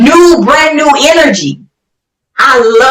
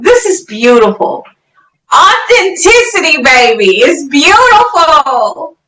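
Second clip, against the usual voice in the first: moved to tears, praising through a crying voice; tearful praise. Real, not acted. Host moved by guest's funeral story, crying as she praises. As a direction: let the tears come while you praise her.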